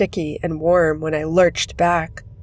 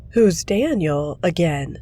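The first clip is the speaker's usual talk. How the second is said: mock puzzlement. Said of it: "pretended to think".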